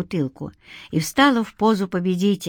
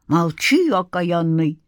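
snapping; slower than usual. A narrator's reading. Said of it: "прикрикнула бабка".

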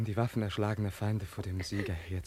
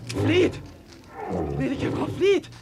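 screamed warning, much higher and louder; desperate shout; 9 dB louder, slower than usual. Acted. Young man screams at the princess to flee the tiger. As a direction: yell at her to run for her life.

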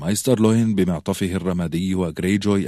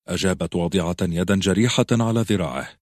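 plain reading voice

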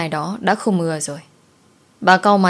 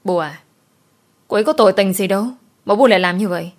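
indignant protest; faster than usual. Acted. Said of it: "Cô nghe xong thì bức xúc".

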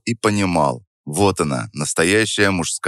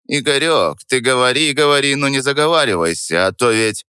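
повыше, с предостережением; пригрози по-дружески; предостерегающе; 5 semitones higher than usual. Acted. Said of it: "косясь на меня недобрым взором". (предостерегающий старый мельник)

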